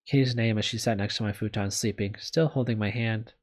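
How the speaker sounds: measured visual novel read-aloud; story narration. Acted. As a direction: read it out as a first-person story. Reads visual novel text.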